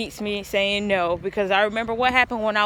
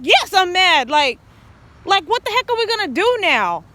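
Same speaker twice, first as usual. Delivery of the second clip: mock upset; 9 semitones higher, 5 dB louder than usual. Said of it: "And I was like".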